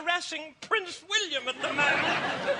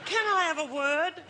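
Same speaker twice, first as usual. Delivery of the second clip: lightly imitated Cockney Queen grumbling; slight Cockney. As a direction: complain with a touch of Cockney. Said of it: "she has a very slight Cockney accent".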